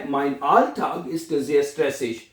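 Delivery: whole sentence very slow and even; slow full-sentence dictation. Shown as a demonstration. Teacher reading the finished German sentence slowly. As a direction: read it slowly for students to copy. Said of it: "हैं?".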